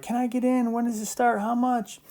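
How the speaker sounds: high, eager student emails read aloud; teacher mimicking eager students asking about the camp. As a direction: play the pushy students begging to get in. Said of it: "students email, like".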